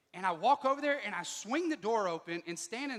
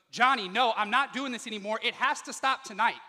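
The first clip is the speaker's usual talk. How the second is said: louder, pleading, lightly tearful; mild mock tearful plea; 4 semitones higher, 10 dB louder than usual. Wife begging her husband, loud and tearful. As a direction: plead with him, voice rising. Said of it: "she's bursting into tears".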